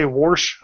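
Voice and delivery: "warsh" with an R; deliberate mispronunciation. Shown as a demonstration. Warning friends it's for effect, "warsh" with an R. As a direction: put an R in "warsh" on purpose. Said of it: "I'm saying it on purpose".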